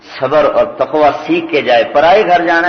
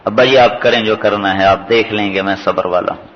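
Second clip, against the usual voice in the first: calm acceptance; 2 semitones lower than usual. Retold or imitated. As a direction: imitate a son calmly consenting to his father. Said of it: "وہ بڑے آرام سے کہتے ہیں". (پُرسکون، بڑے آرام سے دیا گیا جواب)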